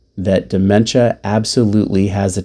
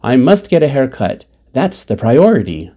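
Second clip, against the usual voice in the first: higher, emphatic mock declaration; sudden announcement; 3 semitones higher than usual. Mother suddenly announces her haircut plan, emphatic. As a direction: announce it like a top priority. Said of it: "She suddenly announces".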